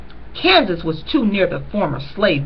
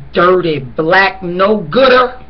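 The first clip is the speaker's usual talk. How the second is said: slow, louder, contemptuous sneer at the absent father; scornful relative; 5 dB louder, slower than usual. Retold or imitated. Family member cursing the runaway father, slow scornful sneer. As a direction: spit out the insult slowly.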